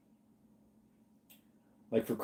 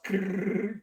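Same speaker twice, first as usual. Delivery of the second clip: teeth chattering; 7 semitones higher, 4 dB quieter than usual. Pretend. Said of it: "Those are teeth chattering".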